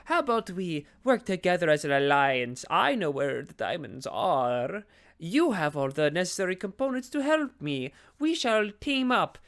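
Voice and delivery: a hint of a sly villain, slowing on the last line; Tim Curry scheming. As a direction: coax them into an alliance like a smooth schemer. Tim Curry proposing an alliance.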